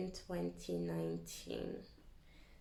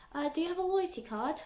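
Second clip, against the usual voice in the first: higher, chirpy cashier question; polite till voice; 7 semitones higher, 3 dB louder than usual. Retold or imitated. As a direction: put on the service voice. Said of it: "and I'm just like".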